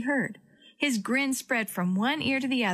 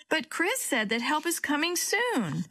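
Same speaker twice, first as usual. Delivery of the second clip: almost wailing; 7 semitones higher than usual. A narrator's reading. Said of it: "Willie almost wailed".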